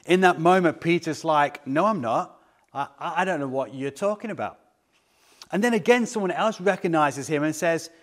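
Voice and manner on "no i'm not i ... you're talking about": stammering denial, quickening at the end; flustered denial. Retold or imitated. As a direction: stumble on "I", then rush it away. Peter's flustered denial, acted.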